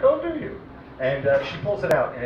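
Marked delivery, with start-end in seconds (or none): 0.0-0.6 jumps way up high on the question; squeaky delighted surprise at the offer; mock eager surprise. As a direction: play it as a thrilled, too-eager teenager. Eager reply to vodka offer.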